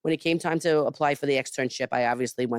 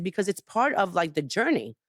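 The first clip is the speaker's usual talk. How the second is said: retold emphatic plea, pitched higher; 4 semitones higher than usual. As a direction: make the case emphatically, as retold. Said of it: "I was, like, very emphatic".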